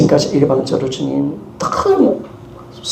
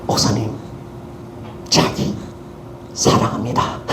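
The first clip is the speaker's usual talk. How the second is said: wife's mock sweet talk; 6 semitones lower, 5 dB quieter than usual. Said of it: "분위기를 잡습니다".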